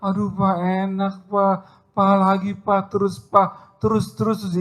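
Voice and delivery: high falsetto wife urging him on; hammed-up high-pitched wife; mock moaning wife. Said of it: "tapi bilang".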